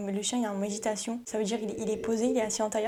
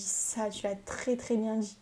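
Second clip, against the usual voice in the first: moqueur; 3 dB quieter, slower than usual. Acted. Compliment moqueur, ralenti.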